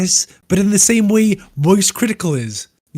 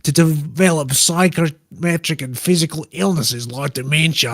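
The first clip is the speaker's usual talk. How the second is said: put-on Australian accent. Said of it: "Do it possibly in an Australian accent".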